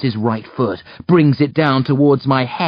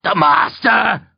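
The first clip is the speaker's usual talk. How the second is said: high, slow cry of dread; fearful, drawn-out exclamation; terrified outcry; 9 semitones higher, slower than usual. A narrator's reading. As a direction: blurt it out in nightmare fear. Nightmare-struck uncle cuts in, terrified.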